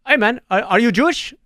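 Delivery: lightly put-on neighbor asking a question; mock Orthodox neighbor. Neighbors approaching him on the street, lightly imitated. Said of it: "I'm not trying to do an accent".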